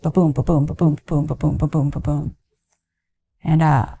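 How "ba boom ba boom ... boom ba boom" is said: heartbeat imitation. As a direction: mimic the baby's heartbeat on the monitor, gently. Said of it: "I just heard".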